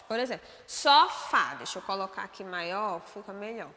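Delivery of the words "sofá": "sofá" with a stronger final syllable; stress on last syllable. Shown as a demonstration. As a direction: lean on the "fá" of "sofá", louder. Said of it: "a última sílaba é pronunciada de maneira mais forte". ("sofá" com a última sílaba mais forte)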